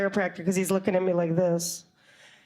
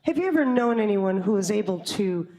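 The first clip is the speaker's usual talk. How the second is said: chiropractor. Acted. Chiropractor voiced asking an eerie question.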